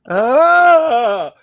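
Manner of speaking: high, loud nerdy squeal; nerd voice. Retold or imitated. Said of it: "in my little nerd voice".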